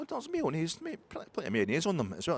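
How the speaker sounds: high hammed-up Belgian accent. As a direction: sing it out like a stereotyped Belgian. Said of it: "a bit stereotypy there".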